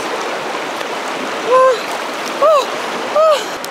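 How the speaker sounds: long high breathy exhale; shaky breath out. Real, not acted. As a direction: blow out through the cold. In icy river.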